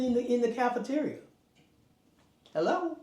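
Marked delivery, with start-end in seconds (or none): 2.5-3.0 rhetorical hello. Real, not acted. Rhetorical call for emphasis.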